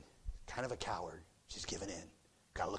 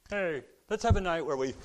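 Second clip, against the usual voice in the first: mock cheerful team voice; 5 semitones higher, 4 dB louder than usual. Mocking the team's idea.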